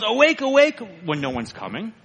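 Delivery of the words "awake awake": high, louder mock watchman's cry; Mister Conscience yelling alarm. Preacher retelling the watchman's false alarm, high mock yell. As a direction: imitate a frantic false alarm. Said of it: "So he yells".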